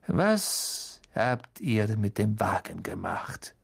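slow, cold questioning; cold interrogating teacher. Acted. Snape interrogating coldly.

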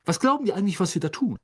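high, affronted complaint; hissing indignation. A narrator's reading. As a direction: scold the brothers' cheek officiously. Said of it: "zischte Percy".

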